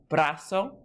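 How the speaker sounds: Brazo with the BRA stressed; stress on first syllable of Brazo. Shown as a demonstration. Teacher shows students the spoken accent, stress on BRA in Brazo. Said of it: "spoken accent on the second to last syllable".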